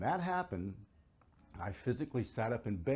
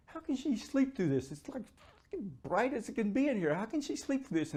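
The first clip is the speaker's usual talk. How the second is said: high-pitched, amazed disbelief; incredulous; 12 semitones higher than usual. Retold or imitated. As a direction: relive the astonishment in a raised voice. Retelling his astonished thoughts that night.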